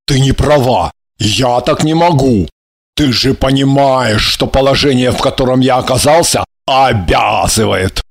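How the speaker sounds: low man's voice, appealing to reason; conciliatory. A narrator's reading. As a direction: reason with them in a low, pacifying tone. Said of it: "с умиротворяющими нотками призывал".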